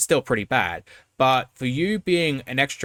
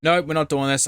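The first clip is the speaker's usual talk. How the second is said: higher-pitched, exasperated refusal; fed-up refusal; 5 semitones higher, 3 dB louder than usual. Real, not acted. Commentator refusing more of these questions, exasperated. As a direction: shut it down, fed up.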